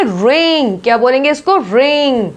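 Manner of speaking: रिंग with a plain R; silent W. Shown as a demonstration. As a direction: say रिंग, not व्रिंग. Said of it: "व्रिंग नहीं बोलेंगे".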